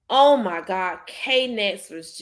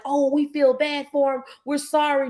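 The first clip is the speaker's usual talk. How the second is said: mock sympathy; 4 semitones higher than usual. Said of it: "they're like".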